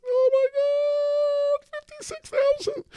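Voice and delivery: high, drawn-out delighted cry; excited squeal. Real, not acted. Vlogger thrilled by his crypto gains, squealing. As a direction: squeal at the number going up. Sees crypto price jump.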